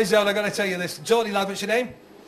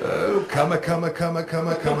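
Peter Beardsley voice; 3 semitones lower than usual. Retold or imitated. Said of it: "That was Peter Beardsley".

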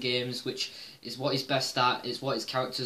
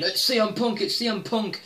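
mocking clueless fans; 5 semitones higher than usual. Mimicking online commenters guessing wildly, higher mock excitement. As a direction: rattle off names like a clueless commenter. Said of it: "they're just listing names off the bat".

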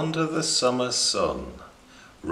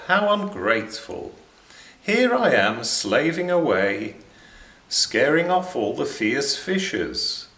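a hint of offended huff, higher; huffy anemone; 3 semitones higher than usual. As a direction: sulk and threaten to leave. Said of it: "says Blob".

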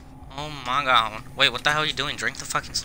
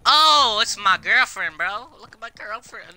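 excited; 10 semitones higher, 7 dB louder, slower than usual. Real, not acted. Spots his girlfriend in game.

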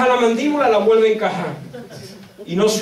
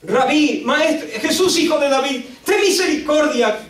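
high-pitched pleading call; imitated crying out; 5 semitones higher than usual. Desperate mother calls to Jesus in the street, imitated crying out. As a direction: call out as if after someone in the street. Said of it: "sale dando voces por la calle".

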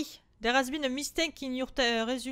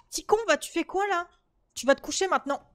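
angry order; 4 semitones higher, 4 dB louder than usual. Real, not acted. Ordering child to bed.

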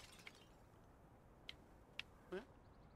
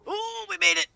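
high, loud cheer of relief; excited; 11 semitones higher, 14 dB louder than usual. Real, not acted. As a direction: shout it out, thrilled you made it. Lands the jump just barely.

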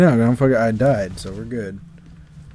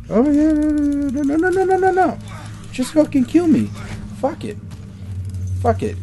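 very high falsetto whine; exasperated high-pitched babble; sarcastic surrender. Real, not acted. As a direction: squeak it out high in mock surrender. Sarcastic surrender while dying in game.

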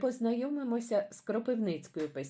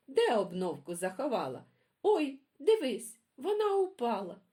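quarrelling magpie; 6 semitones higher than usual. Acted. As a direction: shout back, denying it, then point in alarm. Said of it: "горло криками деруть".

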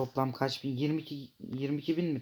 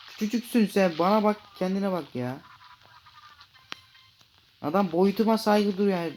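loud, higher hammed-up telling-off; mock indignant scolding; 8 semitones higher, 7 dB louder than usual. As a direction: scold the tiny fish, playfully outraged. The shark scolds a small fish.

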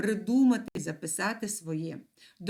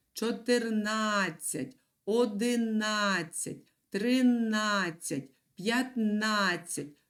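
slow, careful Чотирнадцять, одинадцять with the beat on на; teacher modelling the stress slowly; stress on the syllable на; slower than usual. Shown as a demonstration. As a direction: model each numeral slowly, hitting на. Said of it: "ставлячи наголос на, е, склад «на»".

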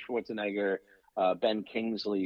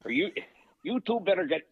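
lightly voiced Italian-American tough guy; a hint of movie-gangster menace; Dennis Farina; 4 semitones higher than usual. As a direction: threaten them lightly, like a wiseguy. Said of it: "Dennis Farina, one of my favorite Italians".

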